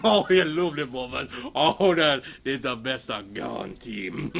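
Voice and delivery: low, slowing, savoring growl; gorging wolf. Acted. Wolf gobbling Granny's muffins, low savoring voice.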